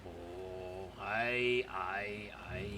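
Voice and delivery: soft, low, caught-out stammering; sheepish dwarf stammer. Acted. Dwarves caught cheating at dice, stammering quietly. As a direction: fumble for words like a guilty cheat. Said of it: "look kinda shamefaced and like".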